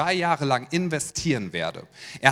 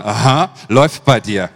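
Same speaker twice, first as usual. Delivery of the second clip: mock impressed neighbor; 6 semitones lower, 9 dB louder than usual. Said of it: "einige gucken sich schon an".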